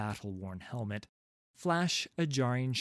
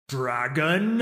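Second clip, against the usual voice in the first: loud, drawn-up questioning purr; mocking purr; 5 semitones higher, 10 dB louder than usual. A narrator's reading. Dragon toying with the warrior commanding it, mocking purr. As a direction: throw the name back as a rising, taunting purr. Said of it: "I purr".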